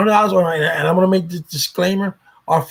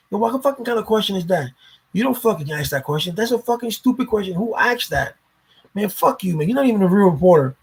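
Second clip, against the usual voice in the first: higher, mock-angry rant; retold heated outburst; 4 semitones higher than usual. Omi snapping at a phone interviewer, imitated heated. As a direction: imitate someone heated, swearing with emphasis. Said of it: "he got real heated".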